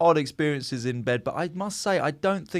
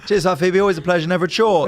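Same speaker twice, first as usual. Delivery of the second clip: mock gracious thanks; 4 semitones higher, 6 dB louder, faster than usual.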